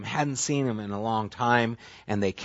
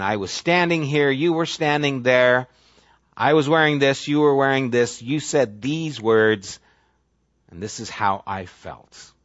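lightly voiced grievance, slowing at the end; mock grudge replay. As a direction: replay every wrong detail. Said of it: "I can rehearse these things".

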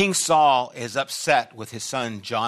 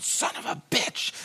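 retold child's curse; 5 dB quieter than usual. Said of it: "he shouts out".

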